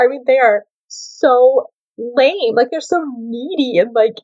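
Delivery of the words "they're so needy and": ordinary talk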